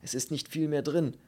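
regretful. Acted. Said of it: "sagte er bedauernd".

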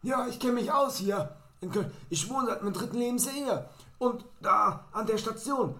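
hammed-up tipsy woman blurting directions; tipsy loud woman. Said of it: "und sagte dann so".

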